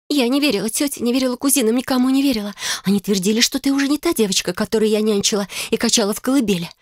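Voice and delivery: high, trembling hurt; tearful sister pouring out betrayal, voice up high. A narrator's reading. Betrayed sister reproaching her sister, high trembling voice. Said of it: "дрожащим голосом произнесла сестра".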